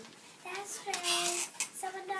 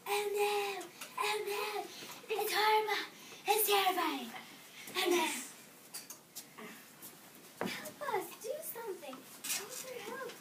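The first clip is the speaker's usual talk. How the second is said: panicked screaming; 6 semitones higher than usual. A narrator's reading. Elephants begging the butler for help, high and frantic.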